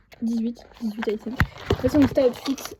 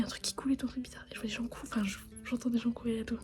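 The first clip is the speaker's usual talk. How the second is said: hushed whisper late at night. Real, not acted. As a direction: whisper so as not to wake anyone.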